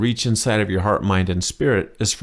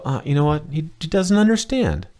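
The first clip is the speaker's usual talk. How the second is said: Thai local commenting; 8 semitones higher than usual. Retold or imitated. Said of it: "they go".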